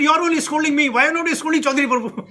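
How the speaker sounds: put-on a little boy complaining he alone is scolded; annoyed child. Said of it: "So he got very annoyed".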